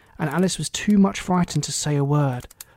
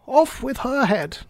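high, drawn-out royal cry; storybook Queen calling out a sentence; shouted order; 8 semitones higher, slower than usual. A narrator's reading. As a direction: stretch out the execution order, pitched high. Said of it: "and shouting".

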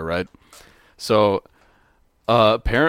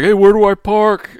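mock dude voice; 9 semitones higher, 7 dB louder than usual. Imitating a stranger asking Pincus.

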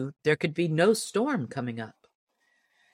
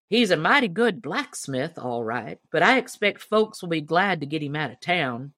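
lightly voiced old deacon; 3 semitones higher than usual. Deacon describes Ollie.

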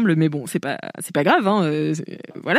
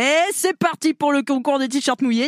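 camp host; 4 semitones higher than usual. Retold or imitated. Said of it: "fait très bien l'animateur de camping".

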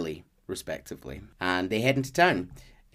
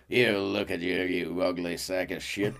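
mean insult; 6 semitones lower, 5 dB quieter than usual. Retold or imitated. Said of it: "He'll just go up to someone and go".

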